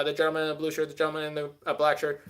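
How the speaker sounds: lightly done auctioneer calling bids; a hint of an auctioneer taking bids. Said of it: "with my auctioneer voice".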